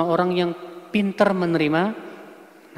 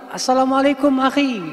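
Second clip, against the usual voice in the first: proper greeting; 6 semitones higher than usual. Shown as a demonstration. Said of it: "yang benar apa".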